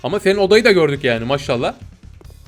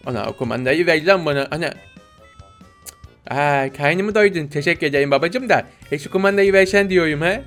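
Bebek Gaffur; 2 semitones lower than usual. Pretend. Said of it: "Bebek Gaffur olalım".

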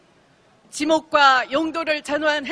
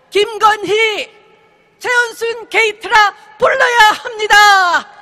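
roaring rallying speech; 3 semitones higher, 4 dB louder than usual. Real, not acted.

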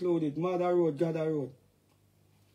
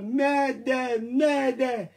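mock mayday call; 3 semitones higher, 4 dB louder, much slower than usual. Mock alarm about hood attack.

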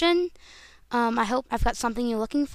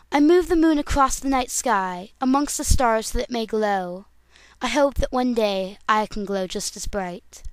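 Princess Luna audition voice. Acted. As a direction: proclaim it as a royal character. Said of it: "now for Luna".

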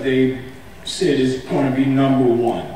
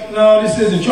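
put-on insistent child; 8 semitones higher, 3 dB louder than usual. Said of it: "He goes".

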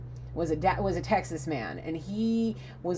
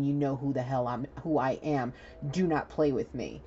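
low Southern-accented warning, lightly acted; understated stern Southern lawman; 4 semitones lower than usual. Sheriff pointing to his badge, low Southern-accented warning. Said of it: "tell you in a Southern accent".

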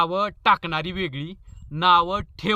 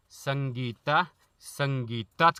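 mock doting call; 5 semitones lower, 4 dB quieter, much slower than usual. Lovesick husband calling wife's name.

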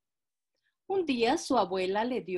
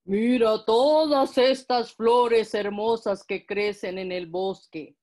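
slow, louder, coaxing wolf; 7 dB louder, slower than usual. Acted. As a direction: lure her like a sly wolf. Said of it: "dijo el lobo".

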